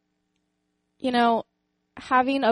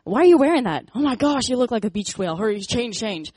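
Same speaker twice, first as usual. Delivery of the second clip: sneering, pitched-up inner critic; mocking inner critic; 2 semitones higher, 5 dB louder than usual. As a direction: spit it out like a harsh inner voice mocking her. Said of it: "the other one saying".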